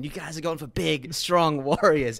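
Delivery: Brad Pitt voice. Retold or imitated. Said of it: "Brad Pitt's coming in".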